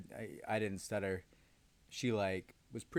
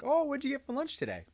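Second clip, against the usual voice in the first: high, chirpy mock coworker; mocking the coworker's prying question; 6 dB louder than usual. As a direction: imitate her nosy lunch question, pitched way up. Coworker's quote in retold story.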